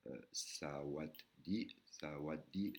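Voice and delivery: slow "sawat di", split into two syllables; syllable demo. Shown as a demonstration. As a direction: say "sawat di" slowly, di rising. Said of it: "un mot en deux syllabes".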